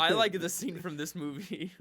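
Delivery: mocking imitation. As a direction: mimic a gushing film fan. Mocks the co-host's scene talk.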